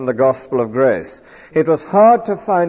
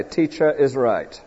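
quoted slogan; 6 dB quieter than usual. Pretend. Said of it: "we must never say".

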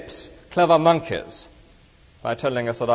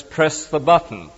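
slow, deliberate reading of the sign's words; reading a notice; slower than usual. Retold or imitated. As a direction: spell out "press the button" slowly like an instruction card. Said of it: "he has a notice which says".

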